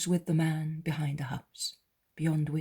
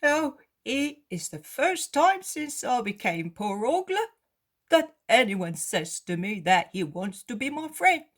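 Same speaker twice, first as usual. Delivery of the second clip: beggar, moved; 8 semitones higher, 6 dB louder than usual. Acted. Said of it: "and he says".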